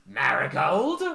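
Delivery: loud, rising disbelief; as if insulted; indignant surprise. Acted. Maid questioning her name, loud and rising. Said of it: "is like".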